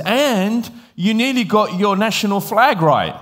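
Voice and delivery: retold cheeky jab; teasing. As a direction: needle him playfully, pitched well up. Retelling his teasing of the taxi driver.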